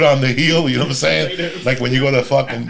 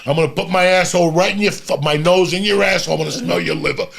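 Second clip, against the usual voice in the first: louder, faster, raunchy pitch; hammed-up crude come-on; 5 semitones higher, 3 dB louder than usual. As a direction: ham up the dirty talk, fast. Acting the crude pickup line.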